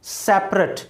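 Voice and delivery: सेपरेट repeated as SEP-rut; सेपरेट in two syllables, falling; ending said "ut". Shown as a demonstration. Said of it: "क्या बोल रहा हूँ?".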